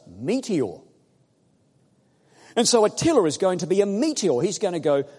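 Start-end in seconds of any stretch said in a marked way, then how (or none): 2.6-5.0 loud, high, vivid build; eager, higher sermon voice; excited preaching. Real, not acted. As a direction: paint the meteor streaking across. Preacher dramatizing meteor.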